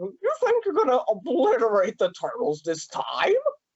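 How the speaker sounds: high, swooping sci-fi cartoon alien character voice. Praising a cast member's voice work, the speaker imitates it: sci-fi alien cartoon voice. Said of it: "it sounded more like an, a sci-fi alien uh cart like cartoon character. Like you're like this".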